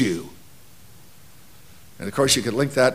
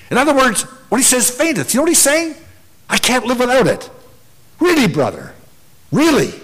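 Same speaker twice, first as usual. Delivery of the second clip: higher-pitched, challenging preacher delivery; impassioned preaching; 5 semitones higher than usual. Real, not acted. Preacher asking the congregation if they could live without assembly, impassioned preaching. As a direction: press the congregation with pointed questions.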